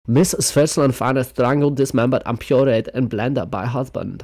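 headline read in a light mock Swiss accent. Reading the news headline to viewers in a mock Swiss accent. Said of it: "rude to say it in that accent".

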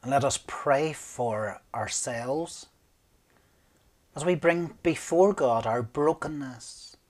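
hushed guided prayer. Acted. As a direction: lead them gently into prayer. Leads a quiet prayer.

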